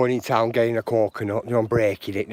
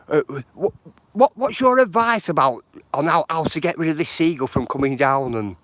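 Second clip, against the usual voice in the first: worked-up plea; 4 semitones higher, 4 dB louder than usual. Retold or imitated. Caller asking advice, getting worked up.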